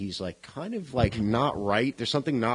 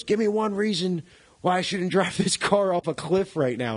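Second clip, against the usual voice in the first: higher-pitched imitation of a girl; imitated girl's ultimatum; 8 semitones higher than usual. Retelling a reckless girl's threat to Rollins, raised-voice ultimatum. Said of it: "she goes".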